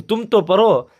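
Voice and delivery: mock angry order to read; angry teacher. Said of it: "जब मौलवी साहब को गुस्सा आया".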